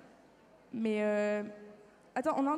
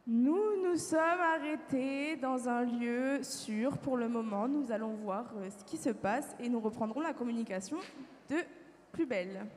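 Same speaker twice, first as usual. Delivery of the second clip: formal report. Acted. Recording the emergency landing for science, formal report.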